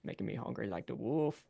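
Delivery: lively Southern showman working the crowd; folksy Cajun band frontman. Acted. Frontman greeting diners from the stage, folksy and playful. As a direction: greet the crowd like a Louisiana bandleader.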